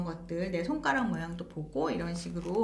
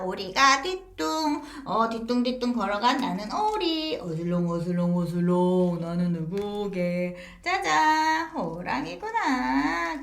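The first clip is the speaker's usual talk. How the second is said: animated storytelling demo; slower than usual. Shown as a demonstration. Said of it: "이렇게 움직이면 아이들이 좋아하기도 하고".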